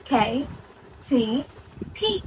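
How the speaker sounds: খে, ছি, ফি each with a puff of air; aspirated K, T, P. Shown as a demonstration. Teacher showing the three changed sounds, aspirated খে, ছি, ফি. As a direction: model খে, ছি, ফি separately with aspiration. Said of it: "কে টি পির মাধ্যমে change হয়".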